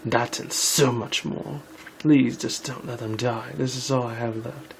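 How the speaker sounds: pleading queen, a touch of despair; mild pleading. Acted. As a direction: beg for their lives, lightly acted. Queen pleads for her subjects.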